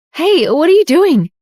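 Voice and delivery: high startled shout; shouting back. A narrator's reading. Jade shouts back at Evelyn in alarm. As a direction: push back with an alarmed yell. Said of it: "Jade shouted back".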